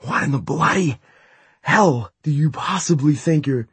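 snarling. A narrator's reading. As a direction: spit it out furiously. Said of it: "he snarled".

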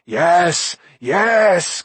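high, loud eager yes; crying out. A narrator's reading. Gurgi eagerly answers Gwydion, high and loud. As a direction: blurt it out excitedly. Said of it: "Gurgi cried".

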